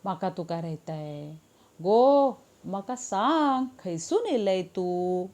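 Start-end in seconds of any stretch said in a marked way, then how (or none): 1.8-5.3 slow Malvani-accented question; Malvani dialect. Shown as a demonstration. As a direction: drawl it the Konkan Malvani way. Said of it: "यही wording Malvan में कैसे".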